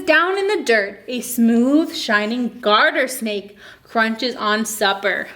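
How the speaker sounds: slow, lilting picture-book reading; reading to children. Acted. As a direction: read it aloud to a class of little kids. Reads picture book to kids.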